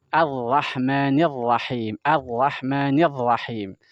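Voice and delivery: Ar-Rahmanir pelan, mulut terbuka; qari melafalkan ra. Shown as a demonstration. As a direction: tiru qari yang serius. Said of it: "ketika melafalkan huruf ra itu serius banget". (Ar-Rahmanir Rahim ala qari, pelan dan jelas)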